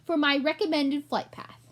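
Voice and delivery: a pompous little shopkeeper rat. Acted. Gilbert continues.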